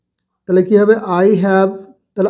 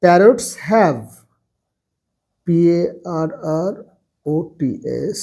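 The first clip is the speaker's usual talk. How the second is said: parrots have green feathers, lower and softer, spelling P A R R O T S; slow dictation with spelling; 5 semitones lower, 4 dB quieter, much slower than usual. Shown as a demonstration. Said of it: "তার জন্য এটা হয়ে যাচ্ছে". (বানান করে ধীরে লেখানো)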